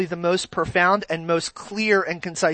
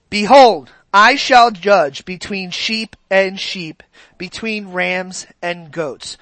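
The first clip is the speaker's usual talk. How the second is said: slow, solemn Bible reading; scripture reading; much slower than usual. Acted. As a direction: read the verse slowly and deliberately. Reading Ezekiel to congregation.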